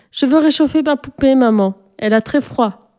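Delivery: lightly voiced girl, earnest; earnest little girl. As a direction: tell mother seriously. Sophie explaining to mother.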